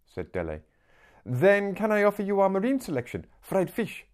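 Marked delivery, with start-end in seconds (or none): 1.2-4.1 high, bright-pitched seller's patter; eager little street seller. Acted. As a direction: rattle off the menu like an eager young hawker. Voices Little Mama.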